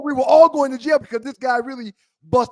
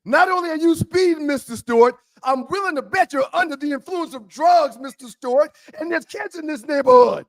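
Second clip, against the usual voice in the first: scolding cop; 4 semitones higher, 4 dB louder than usual. Retold or imitated.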